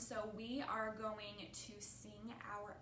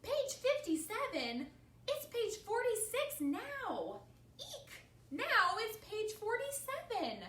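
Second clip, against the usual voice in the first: loud, high, stretched-out alarm; panicked alarm; 11 semitones higher, 8 dB louder, slower than usual. A narrator's reading. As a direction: wail the numbers in cartoon panic. Gerald panics at page numbers.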